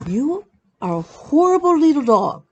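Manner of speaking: high, loud sing-song scold; doting dog scold. Retold or imitated. Owner to her little dog, loud and high doting. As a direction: tease the dog lovingly. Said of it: "I would go".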